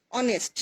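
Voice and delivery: অনেস্ট said with an open o sound and no h at the start; অনেস্ট spoken without its h; silent h demo. Shown as a demonstration. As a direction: say অনেস্ট as "onest", dropping the h. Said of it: "উচ্চারণটা হচ্ছে অ এর মতো".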